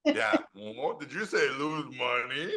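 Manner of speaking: suddenly perked-up studio exec; Hollywood robot voice. Retold or imitated. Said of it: "the Hollywood robot goes".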